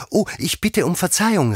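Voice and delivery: high, loud, startled apology; Alice crying out an apology, high and loud; quick exclaimed apology. A narrator's reading. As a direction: call out sorry at once. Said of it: "rief Alice schnell".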